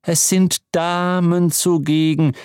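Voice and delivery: high, sharp reproach; a touch of clerical severity; sharp rebuke. Acted. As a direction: snap a stern reminder of decorum. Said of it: "scharf vernehmen".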